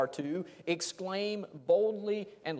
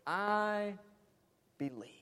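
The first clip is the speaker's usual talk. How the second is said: bold loud exclamation; 3 semitones higher, much slower than usual. Shown as a demonstration. Preacher repeating the father's confident cry, loud on Lord. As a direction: Lord called out louder. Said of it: "It's a bold, loud exclamation".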